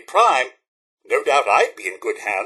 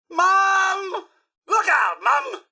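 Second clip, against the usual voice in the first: high, urgent cry of warning; alarmed call; 13 semitones higher, much slower than usual. Acted. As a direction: call out sharply to warn her. Calling out a warning.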